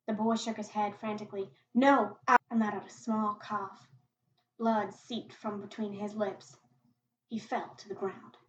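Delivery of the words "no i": frantic protest. Acted. Boy protests frantically, cut off.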